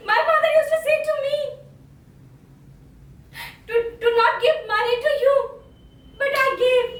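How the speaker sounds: rising tearful reproach. Acted. Betrayed son crying out at his friend, tearful build. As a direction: build it into a choked outcry about father. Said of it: "I'm going to modulate some dialogues".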